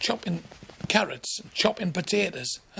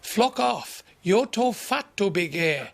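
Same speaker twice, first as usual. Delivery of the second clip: retorting voice; 3 semitones higher, slower than usual. Retold or imitated. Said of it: "I heard this voice say".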